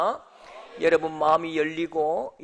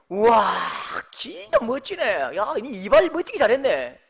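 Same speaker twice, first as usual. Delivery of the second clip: put-on high, gushing compliment to the young woman; mock gushing praise; 6 semitones higher, 6 dB louder than usual. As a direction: lay on the praise, all admiring. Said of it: "이렇게 했어요".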